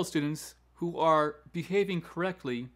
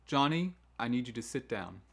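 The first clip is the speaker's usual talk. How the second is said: firm, falling tone at the end; firm teacher giving a clear command; authoritative command. Shown as a demonstration. Teacher telling Johnny to sit, authoritative. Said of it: "needs to be a authoritative command".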